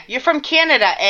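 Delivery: half-hearted Canadian "eh?"; playful attempt at Canadian; mock Canadian accent. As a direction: try a Canadian accent and muff it. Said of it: "I practiced that, and I still".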